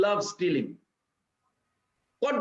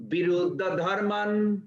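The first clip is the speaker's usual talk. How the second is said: Viruddha dharman repeated slowly, a bit louder, for the room to hear; a little louder. Shown as a demonstration. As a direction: say Viruddha dharman again, louder, so they can follow. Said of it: "utter a little loud so I can hear".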